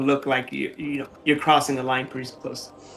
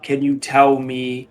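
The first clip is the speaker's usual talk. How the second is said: slow Inquisitor; slower than usual. Acted. Inquisitor asks ominously, slow.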